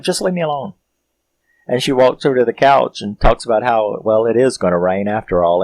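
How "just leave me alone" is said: resigned robot Kat. Retold or imitated. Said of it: "She's just like".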